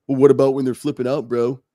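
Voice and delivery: snarky voice. Shown as a demonstration. Parent mocking a coach's advice, snarky. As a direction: toss it off with a sneer. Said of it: "so that's my snarky voice".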